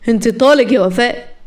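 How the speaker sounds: understated spiteful declaration; a touch of bitter anger; mild spite. Acted. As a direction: declare it with contained venom. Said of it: "مهران بغل".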